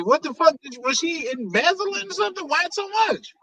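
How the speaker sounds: shocked. Real, not acted. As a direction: pitch jumps up in shock. Shocked at parking cost.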